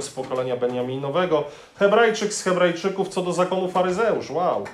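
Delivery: a lightly played Pharisee boasting; boastful Paul. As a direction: rattle off your pedigree with pride. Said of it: "co mógłby zapisać?".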